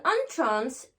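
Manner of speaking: entrance begun with "on", said slowly; slow, open "on" to start entrance; "on" first syllable. Shown as a demonstration. Teacher reading an example of the noun, "on" in entrance. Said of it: "on va faire le son en".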